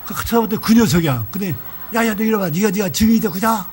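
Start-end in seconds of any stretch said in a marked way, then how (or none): 1.9-3.7 higher-pitched mimicked bragging; spluttering boast. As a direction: press the listener to back up your brag. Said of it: "막 침을 톡톡 쳐배으면서". (침 튀기며 자랑하는 흉내)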